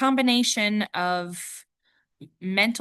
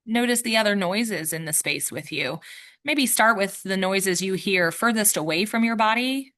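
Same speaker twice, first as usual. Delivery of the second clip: measured meditation guide, long pauses between instructions; guided meditation. Real, not acted. Yoga teacher guiding listeners to notice the room, guided meditation. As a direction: guide listeners gently into noticing, leaving space after each cue.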